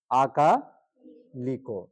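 আকালিকো drawn out with a long opening a; very slow, syllable by syllable. Shown as a demonstration. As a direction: spell out আকালিকো slowly. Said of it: "অ থেকে আ". (ধীরে ধীরে আকালিকো)

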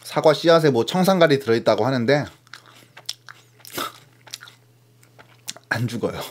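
speaking between bites; chewing while talking. Real, not acted. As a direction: mouth partly full of apple. Seen 1: Bit apple at -9, lips work between words, holds bitten apple.

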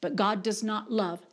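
very slow, word-by-word declaration; emphatic preaching. Real, not acted. Preacher making it really clear to the congregation, emphatic preaching. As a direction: preach it with weighty pauses between words.

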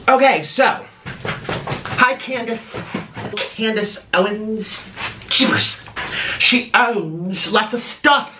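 lightly hammed-up rant at a critic; scolding Candace with faked self-righteousness; mock indignant influencer. Viewer rant at Candace, mock indignant.

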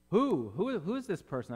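loud, high "who?", then easing; acted puzzlement. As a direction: play someone stumped mid-prayer. Manoah stuck mid-prayer without name.

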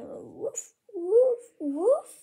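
repeated pretend woofs, rising in pitch; dog barking. Pretend dog barks at visitor, insistent woofing. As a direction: keep woofing like a worked-up dog.

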